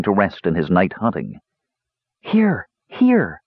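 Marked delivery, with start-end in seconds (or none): 2.2-3.4 high, far-off little bird voice; a small bird answering her leader, piping high. A narrator's reading. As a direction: pipe it like a tiny wren. Bird Wren answers Tanis.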